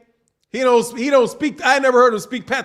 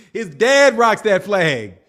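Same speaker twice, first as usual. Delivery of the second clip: laughing; 3 dB louder, slower than usual. Real, not acted. Laughing while repeating the point.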